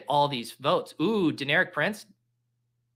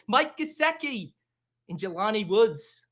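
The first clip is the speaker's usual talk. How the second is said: hammed-up Australian accent; 4 semitones higher than usual. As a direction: ham up an Australian announcer. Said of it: "this accent".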